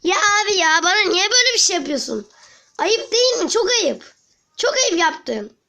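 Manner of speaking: high whiny reproach; high mock-offended scolding. Real, not acted. Scolding the game.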